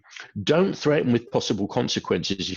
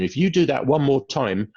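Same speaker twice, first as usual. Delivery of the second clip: parent warning; 2 semitones higher than usual. Retold or imitated. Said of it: "I hear parents say to their children".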